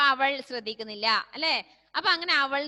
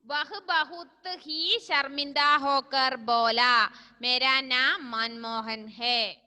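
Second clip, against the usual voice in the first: slow dictation; 3 dB louder, slower than usual. Shown as a demonstration. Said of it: "അവൻ വളരെയധികം ലജ്ജയോടുകൂടി".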